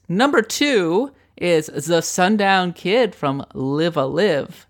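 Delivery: slow, dramatic radio countdown host; Casey Kasem countdown voice. Pretend. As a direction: announce it like a top forty DJ. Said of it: "extremely Casey Kasem, Casey Kasem countdown voice".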